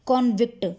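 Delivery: "कॉन्विक्ट" with a rounded, open "कॉन" at the start; wrong pronunciation. Shown as a demonstration. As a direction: say "कॉन्विक्ट" with a full o vowel first. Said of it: "जो कि गलत है".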